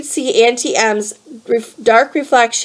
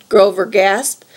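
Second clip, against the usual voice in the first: usual speaking voice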